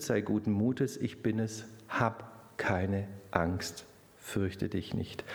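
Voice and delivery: Jesus reassuring. Retold or imitated. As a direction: promise it fervently, then gently calm. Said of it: "Da sagt Jesus".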